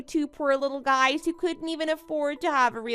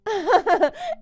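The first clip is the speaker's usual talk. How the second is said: mocking laugh; 5 semitones higher, 4 dB louder than usual. Smug rival mocking friend.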